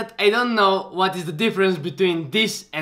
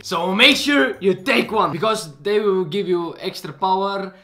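raised, energetic sales pitch; merch promo pitch; 4 semitones higher, 6 dB louder than usual. Real, not acted. Plugging Drum of Power shorts to viewers, hyped pitch.

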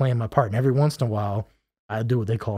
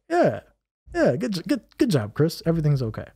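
mock self-pep talk; 7 semitones higher than usual. Reassuring himself in high voice.

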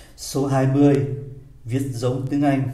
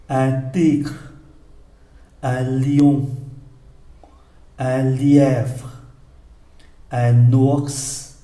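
slow word list, long pauses between items; very slow reading. Shown as a demonstration. Teacher reads for learners to follow, very slowly. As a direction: read each French word deliberately, leaving room to repeat. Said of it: "một lần rất là chậm".

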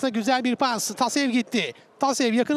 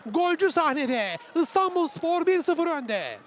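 excited commentator; 5 semitones higher, slower than usual. Real, not acted. After the goal.

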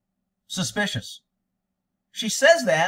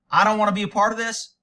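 mock pleading; 4 semitones higher, 4 dB louder, faster than usual.

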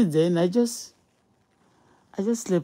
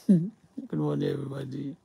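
laughing greeting. Real, not acted.

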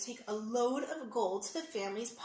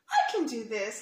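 put-on eager little boy; 8 dB louder than usual. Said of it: "Liam said".

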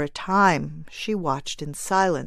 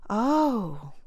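tender little cry; 4 semitones higher than usual. Acted. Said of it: "a tender little cry".

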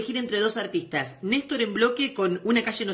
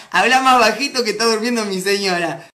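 mock shout; 6 dB louder than usual. Defiantly loud reading of request.

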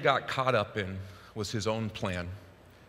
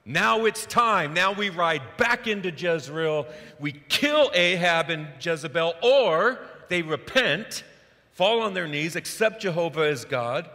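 loud, high, triumphant rush of plans; excited plans; 4 semitones higher, 5 dB louder, slower than usual. Retold or imitated. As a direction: cheer it like victory is at hand. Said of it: "he's like".

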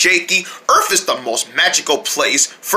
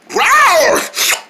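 dinosaur roar; 13 semitones higher than usual. Acted. Dinosaur Jakey roars.

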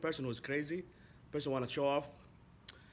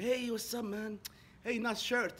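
cheery greeting; 8 semitones higher, slower than usual. Retold or imitated. Friendly greeting to cafe neighbours.

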